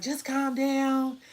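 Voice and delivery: lightly voiced friend calming her down; imitated soothing friend. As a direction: gently draw it out to settle someone.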